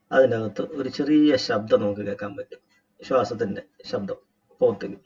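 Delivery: measured instructor's voice with long pauses; guided meditation. Acted. Teacher guiding a group to relax and watch the breath, guided meditation. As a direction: guide them step by step into breath awareness.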